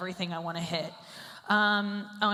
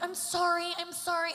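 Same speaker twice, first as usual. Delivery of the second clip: empathetic apology; 9 semitones higher than usual. Retold or imitated. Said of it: "I'm like".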